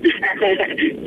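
short, breath-led laugh. Real, not acted. Friend is offered her room as a hotel, short laugh. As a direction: laugh briefly before replying.

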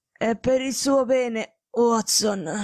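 slow, rasping, short of breath; a dying man croaking a warning to his friend; gasping. Acted. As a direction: wheeze it out through the fever. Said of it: "rantolò".

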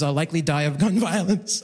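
low, with a laugh breaking in; laughing through it. Real, not acted. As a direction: chuckle midway through a grim line. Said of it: "I don't know why I laughed through that".

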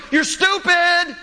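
put-on very high, slow child's yell; bratty kid yelling. Kid yells across the store aisle at his mom, high and stretched. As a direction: shout it like a tantrum over the shelves. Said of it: "yelling over, over the shelving".

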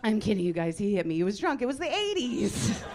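loud, playful insistence; loud protest. Real, not acted. Comic reassuring a laughing audience about her dad, loud protest. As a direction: call it out over the laughter, rising at the end. Shouted aside to reacting audience.

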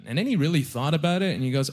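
normal talking voice

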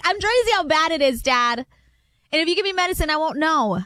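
a hint of a child explaining herself to dad; Chloe. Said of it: "Chloe's like".

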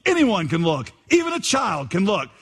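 lightly voiced homespun pulpit preacher; earnest, folksy preacher's sing-song; simple country preacher. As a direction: preach it plainly, lilting up on key phrases. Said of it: "so the preacher began thus".

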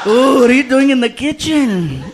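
slow, suggestive question; flirty intrigue. Acted. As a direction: stretch it out teasingly. Acts himself flirting by phone.

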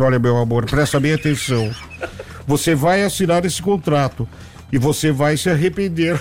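lightly voiced, measured warning to a colleague; Clodovil impression. Clodovil warns the comedian about signing a contract, lightly imitated. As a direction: lightly imitate a confiding TV celebrity. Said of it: "era o Clodovil. Ele olhou pra mim e falou assim".

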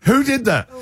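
hammed-up furious star, very high. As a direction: push the outrage up a notch. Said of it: "And then goes".

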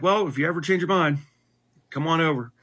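a kindly preacher inviting; friendly pastor voice. Retold or imitated.

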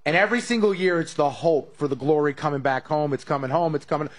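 ordinary delivery

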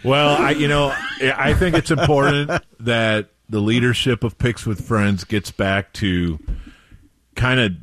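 a hint of a politician's speech; mock campaign speech; acceptance speech. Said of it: "quite an acceptance speech".

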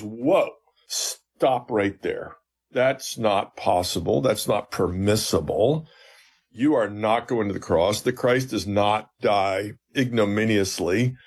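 slow, emphatic retold objection; deliberate refusal, stressing each "not"; strong rebuke. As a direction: put your foot down, word by weighty word. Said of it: "He's so strong, so rough about it".

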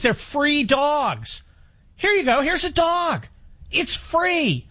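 mock rescue pitch. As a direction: play the cheery rescue worker handing over a dog.

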